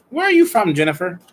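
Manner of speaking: excited high question. Real, not acted.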